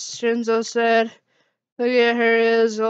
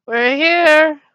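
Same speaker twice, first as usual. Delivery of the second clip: loud, high shout of arrival; slammed the door open and yelled; calling out; 5 semitones higher, 6 dB louder than usual. Acted. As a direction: burst in and call out. Bursting through the door, calling out.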